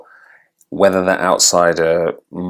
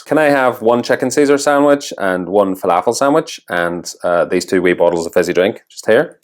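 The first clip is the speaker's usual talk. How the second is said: attempted Northern Irish accent, ordering at a counter. Shown as a demonstration. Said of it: "If you're Northern Irish, how did I do?".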